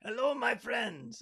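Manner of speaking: high, drawn-out greeting in a put-on character voice; Hondo impersonation. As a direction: greet them in a hammed-up, high, slow pirate voice. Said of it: "in your best Hondo in-, impersonation".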